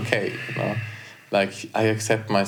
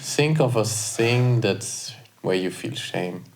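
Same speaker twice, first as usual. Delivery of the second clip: meditation guide; slower than usual. Acted. Guided self-compassion exercise.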